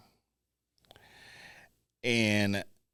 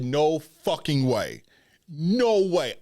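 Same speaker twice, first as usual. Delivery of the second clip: retold disbelief; 4 semitones higher, 5 dB louder, slower than usual. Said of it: "And I said".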